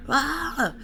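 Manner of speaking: high mock yell, held back; imitated yell. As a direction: imitate a stranger yelling without full volume. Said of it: "like, this yelling".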